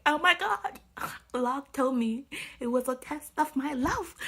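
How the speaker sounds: mock-dramatic retelling; mocking quote. Mocking retold quote of character.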